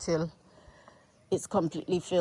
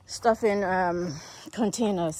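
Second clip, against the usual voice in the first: out of breath from shoveling; breathless, winded words; gasping for air. Real, not acted. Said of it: "Sorry, I'm out of breath".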